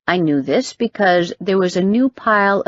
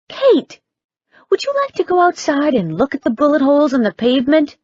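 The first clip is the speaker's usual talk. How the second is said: sarcastic; 9 semitones higher, faster than usual. A narrator's reading. Andrea sarcastic about danger.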